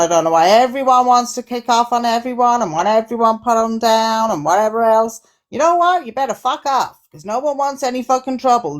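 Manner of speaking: put-on Aussie accent; mock Australian, punchy "G'day, mate". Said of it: "Australian accent, is it?".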